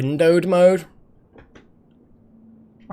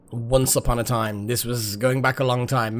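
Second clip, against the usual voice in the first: lower, softer fairy-tale opening; storyteller voice; 5 semitones lower, 5 dB quieter than usual. Shown as a demonstration. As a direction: start it like a bedtime story.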